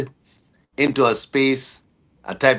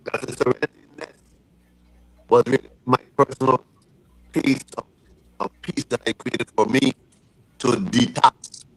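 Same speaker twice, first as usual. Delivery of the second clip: underwater. Real, not acted. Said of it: "it's sounding like you're underwater".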